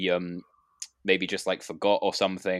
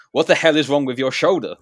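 alarmed question; 6 semitones higher, 9 dB louder than usual. Retold or imitated. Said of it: "Jade just looks at me and goes".

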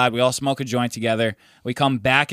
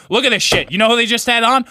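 raised, higher mock rant at the TV; mock yelling; 5 semitones higher than usual. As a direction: play the riled-up friend yelling at the screen. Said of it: "He's, like, screaming at the T V".

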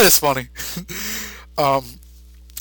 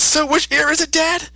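Gohan; 11 semitones higher than usual. Retold or imitated. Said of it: "and says".

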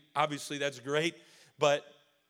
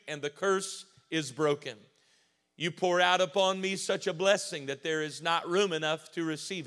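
even, measured declaration rhythm; steady cadence. Real, not acted. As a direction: recite it in a steady, even beat. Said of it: "I'm gonna try to keep a steady cadence today".

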